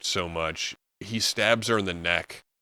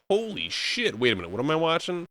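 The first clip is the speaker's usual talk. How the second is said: much higher, fast disbelieving blurt; higher, rushed, astonished aside; stunned disbelief; 9 semitones higher, faster than usual. Retold or imitated. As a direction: gasp it out like you can't believe your eyes. Gobsmacked viewer reaction.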